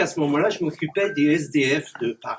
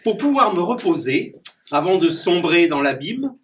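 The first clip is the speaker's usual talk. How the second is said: declaimed rhyming verse with punchy rhyme endings; poem recitation; 3 dB louder than usual. Acted. Clown reciting his rhyming poem to the audience. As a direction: perform the poem for the audience, landing each rhyme.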